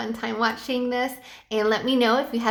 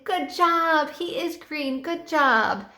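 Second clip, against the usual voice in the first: enthusiastic praise; 5 semitones higher, much slower than usual. Shown as a demonstration. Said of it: "you have to be very enthusiastic".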